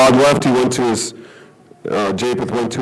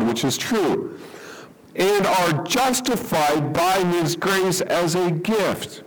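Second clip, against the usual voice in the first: scripture reading; 3 semitones higher than usual. Acted. Reads scripture aloud.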